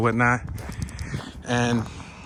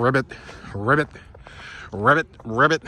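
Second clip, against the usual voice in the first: frog croak imitation. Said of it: "They're like".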